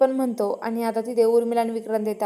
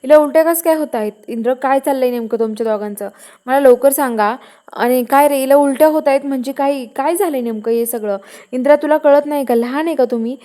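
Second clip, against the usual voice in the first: a mother yelling at her son, somewhat louder; retold angry scolding, a bit louder; 5 dB louder than usual. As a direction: tell him off in a mock scold. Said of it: "Malati हिला ओरडायला लागते".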